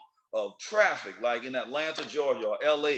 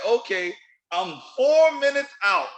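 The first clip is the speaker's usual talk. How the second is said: breezy friend excuse; 8 semitones higher, 6 dB louder than usual. Retold or imitated. Quoting late friend on phone.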